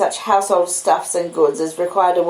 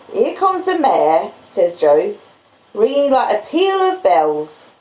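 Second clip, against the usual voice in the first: slow, higher blacksmith voice; slow and higher, Joe pleased; Joe's voice; 3 semitones higher, slower than usual. Acted. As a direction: Joe listening for the cart, drawn out. Joe hears the mare.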